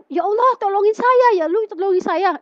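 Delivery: high-pitched imitated cry for help; retold plea. Child retelling her prayer to mother, pleading. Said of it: "Itu ekspresi saya cerita sama mama saya".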